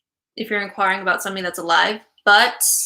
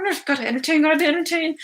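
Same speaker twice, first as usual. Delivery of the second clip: higher-pitched mock fretting; mock nervous self-talk; 6 semitones higher, faster than usual. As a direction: imitate your own jittery inner voice, pitched up. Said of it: "'cause I feel nervous".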